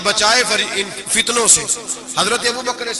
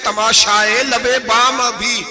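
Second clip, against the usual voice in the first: slow, drawn-out recitation of Iqbal; slow poetic recital, last line rising; recited poetry; slower than usual. Acted. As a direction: savour each line of the verse. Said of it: "Iqbal نے کہا".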